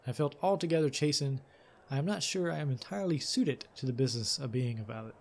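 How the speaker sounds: measured, lively storytelling read; story narration. A narrator's reading. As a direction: read it like an adventure tale. Reads game text aloud.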